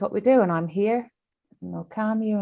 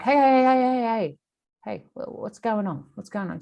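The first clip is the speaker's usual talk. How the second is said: calling out hey; 4 semitones higher than usual. Retold or imitated. Calling to the jockey-less horse.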